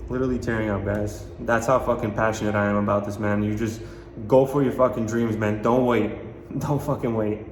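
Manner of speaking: pushing the words out through real tears; quietly choked up, with a tearful laugh at the end. Real, not acted. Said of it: "I'm tearing up right now".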